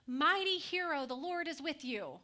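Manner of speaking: angel hails hiding Gideon as Mighty hero, loudly proclaimed; proclaiming angel. Acted. Angel greets Gideon in the winepress, proclaiming loudly. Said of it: "and said".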